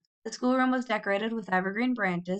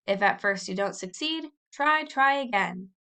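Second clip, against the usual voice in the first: sing-song recitation. A narrator's reading. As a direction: chant the motto like a schoolboy drilling it. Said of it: "He said it over and over".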